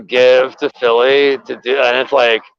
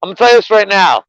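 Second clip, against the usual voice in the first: calling out to chat; 5 semitones higher than usual. Real, not acted. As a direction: hype up a viewer by name. Calls out to a chatter.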